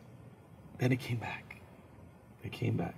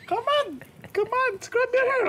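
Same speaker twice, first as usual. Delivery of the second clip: put-on squeaky high Filipino accent, louder; a pushy Filipino nurse nagging in her accent; 3 dB louder than usual. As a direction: Filipino accent, nurse scolding him to shower. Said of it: "there was a Filipino nurse".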